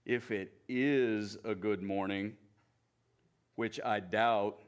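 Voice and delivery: doubt every word of it; gloomy Eeyore. Acted. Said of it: "he said".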